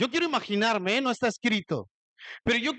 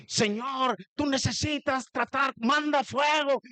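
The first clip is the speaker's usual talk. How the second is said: mock-hostile prayer, pitched up; oración con odio; 4 semitones higher than usual. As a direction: imitate praying at someone as an attack. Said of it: "había odio en la oración". (oración fingida con rencor, en tono más agudo)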